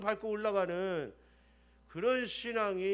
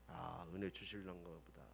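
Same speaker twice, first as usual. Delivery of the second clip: hushed hope; 17 dB quieter than usual. Retold or imitated. Hopeful inner thought.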